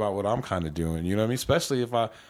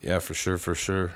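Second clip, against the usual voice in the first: talking while stoned; 3 semitones lower than usual. Real, not acted. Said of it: "I'm high as a motherfucker".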